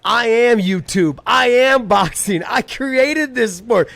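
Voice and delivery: high, loud, slow cocky Irish trash talk; Conor McGregor Irish accent. Pretend. Playing Conor at a mock press conference, cocky Irish accent taunts. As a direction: swagger it in a thick Irish brogue. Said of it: "best Irish accent you got".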